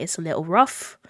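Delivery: put-on rough, understated British accent. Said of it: "haven't done the British accent".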